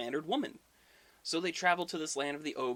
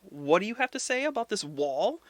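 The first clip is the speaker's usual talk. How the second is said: intrigued; 7 semitones higher, 8 dB louder than usual. Retold or imitated. Loki eggs on the wall builder, loud intrigued delight. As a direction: lean in eagerly, stretching the ooh.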